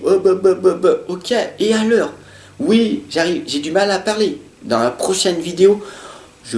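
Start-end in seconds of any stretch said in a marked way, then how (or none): 0.0-1.0 high, stammering on bah; playful mock stutter; stuttering on purpose. Shown as a demonstration. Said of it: "je bégaye".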